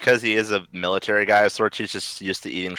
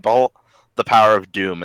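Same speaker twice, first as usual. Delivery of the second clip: louder mock proclamation; retold tiny-bot scream; 5 dB louder than usual. Tiny Doom bot before getting stepped on, mild mock scream. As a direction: raise your voice a little for a mock yell. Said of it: "tiny Doom bot that just screamed".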